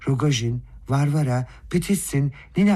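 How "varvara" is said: usual speaking voice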